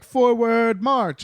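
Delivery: high, drawn-out military command; generals' marching order. Acted. Generals ordering their army forward, high called-out command. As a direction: call it out like a parade-ground general. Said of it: "the generals are like".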